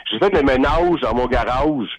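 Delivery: a lightly slowed Montreal accent on garage; a mild take-off of a Montrealer. Shown as a demonstration. Caller gives an example of mocking Montrealers, in a mild Montreal accent. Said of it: "J'imite quelqu'un de Montréal".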